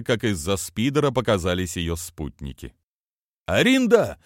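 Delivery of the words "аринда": high, loud call of a name; father calling his daughter across a parking lot. Acted. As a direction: shout her name to find her. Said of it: "воскликнул Телмур".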